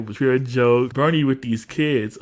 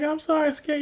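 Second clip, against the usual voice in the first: mock apology; 14 semitones higher, 4 dB quieter, faster than usual. Retold apology in little-kid register.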